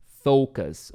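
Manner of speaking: "focus" repeated with a long OH, FOH-kus; "focus" said correctly, falling at the end; proper pronunciation. Shown as a demonstration. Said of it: "Remember the proper pronunciation here?".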